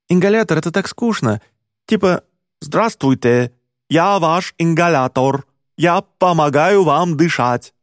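put-on British accent. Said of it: "с британским акцентом".

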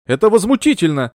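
outraged cry. Acted. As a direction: shout it out in indignation. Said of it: "выкрикнула миссис Уилсон".

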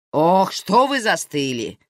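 slow, indignant scolding; aunt scolds the frozen men in the doorway, indignant. Acted. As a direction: bustle them out of their stupor. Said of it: "возмутилась Наира".

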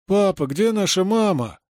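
детская мольба; child pleading. A narrator's reading. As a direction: ask papa like a scared kid. Child voiced in story.

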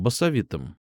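usual speaking voice

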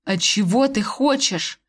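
slow, weary question; a tired husband giving in; slow and worn out; tired sigh. Acted. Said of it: "устало вздохнул муж".

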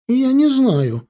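high, loud frightened reply; upset shout. Acted. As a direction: cry it out defensively. Conductor yelled at, answers.

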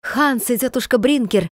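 plain reading voice

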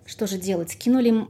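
lively folk tale narration; fairy tale storytelling. Acted. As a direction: tell it like an old village tale. Folk tale told aloud.

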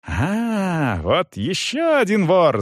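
high-pitched accusing exclamation; angry cry. A narrator's reading. Young man spots the soldier, angrily accusing. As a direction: greet him with an indignant cry. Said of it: "заорал Гирш".

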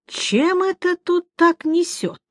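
slow, high, scornful dwarf voice; gruff dwarf sniffing. Acted. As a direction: sneer it out like a rude dwarf. Dwarf sniffs at sorceress' scent.

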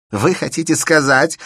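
high, loud heated outburst; hotheaded. A narrator's reading. Shubin hotly accusing Elena, loud heated outburst. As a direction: let it boil over. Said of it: "продолжал запальчиво Шубин".

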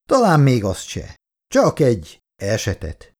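lightly scoffing reply; mocking. Kátai taunts Irén about what he wanted, mildly mocking. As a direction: toy with her. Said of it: "gúnyolódott Kátai".

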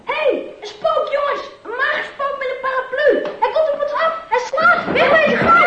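jeering through laughter; mock the scarecrow while laughing; laughing taunts. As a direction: kids teasing, giggling as they call out. Kids jeering at a ghost.

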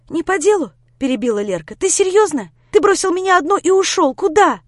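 high, loud outraged cut-in; furious interruption. Acted. Lera interrupting Grisha, outraged at being left. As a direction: throw it back at him in outrage.

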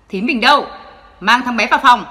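put-on father shouting at the housekeeper to take the boy; loud shout. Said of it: "quát to". (quát to ra lệnh)

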